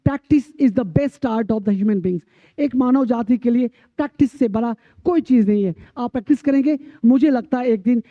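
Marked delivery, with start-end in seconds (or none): 0.1-2.2 practice is the best art, spelled out slowly word by word; slow motto. Shown as a demonstration. Teacher to students, a slow emphatic maxim. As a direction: lay down the lesson, slow and deliberate. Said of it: "बस सीधी सी बात याद रखनी है".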